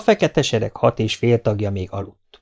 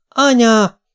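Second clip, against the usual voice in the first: put-on high, loud boyish cry; kiáltás; 13 semitones higher, 6 dB louder than usual. A narrator's reading. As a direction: cry out to stop your mother. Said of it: "kiáltott Dénes". (magas, hangos közbekiáltás)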